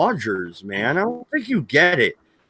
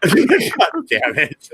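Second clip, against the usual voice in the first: laughing; 5 semitones higher, much slower than usual. Real, not acted. Laughing at friend's joke.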